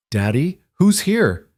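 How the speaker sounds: put-on high sleepy child asking; little girl voice. Sleepy child calls her dad.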